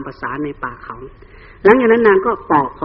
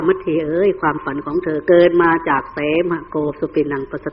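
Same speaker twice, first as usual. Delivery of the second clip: reassuring husband. Acted. Husband explains away wife's bad dream and sends her back, gently reassuring. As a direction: soothe her in a hushed, even voice. Voices King Vessantara soothing his wife.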